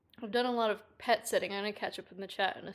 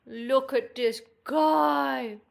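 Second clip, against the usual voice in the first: slow, pitched-up coo; 3 semitones higher, 8 dB louder, much slower than usual. Real, not acted. Pet sitter showing the cat on camera, cooing.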